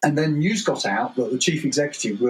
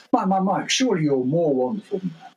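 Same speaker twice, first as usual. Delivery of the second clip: higher, fawning mock voice of a crawler; 5 semitones higher than usual. A middle manager flattering the boss, fawning. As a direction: lay on the flattery, pitched up. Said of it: "another middle manager would put their hand up and go".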